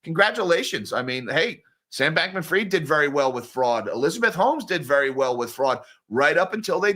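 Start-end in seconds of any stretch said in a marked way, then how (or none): 0.0-0.9 drip sarcasm on every word; sarcastic congratulations. Real, not acted. Mocking the bros who made money on fraud, sarcastic.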